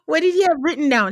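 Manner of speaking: high, loud, laughing questions; amused, incredulous rapid questions; laughing disbelief. Real, not acted.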